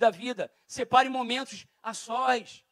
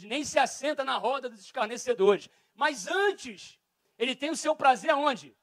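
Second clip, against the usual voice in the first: rising, louder preacher recitation; preaching scripture; 3 dB louder than usual. Acted. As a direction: build the psalm to a loud climax. (pregação fervorosa do salmo)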